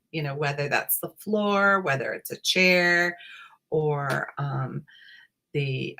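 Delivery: guided meditation. Acted.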